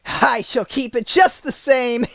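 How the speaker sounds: high, loud gloating witch breaking into a cackle; taunt, then cackle; mocking wicked witch laugh; witch laughing at her. A narrator's reading. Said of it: "laughing at her".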